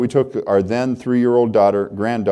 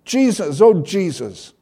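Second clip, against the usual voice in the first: put-on crying child; 8 semitones higher, slower than usual. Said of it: "She then began to cry instead of scream".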